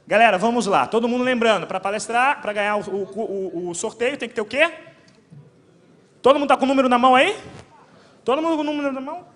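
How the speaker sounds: loud, high rallying call to the room; calling out to crowd. Real, not acted. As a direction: rev up the crowd. Host rallying crowd for raffle.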